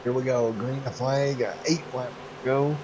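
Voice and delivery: excited, building race commentary; race play-by-play. Acted. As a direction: call the restart like a race announcer.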